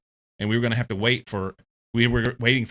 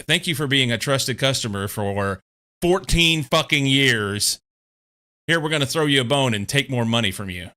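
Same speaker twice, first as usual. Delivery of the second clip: sarcastic mockery; 2 semitones higher, 3 dB louder than usual. Mocking Netflix's price-hike email to the viewers, sarcastic. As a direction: parody the polite email with biting sarcasm. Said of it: "don't butter me up by saying".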